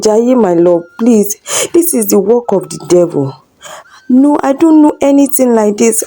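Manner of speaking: high, desperate, fast pleading; frantic plea. Acted. Wife pulling her husband off the neighbour, frantic high pleading. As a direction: beg him to stop, panicked. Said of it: "Kemi shouted".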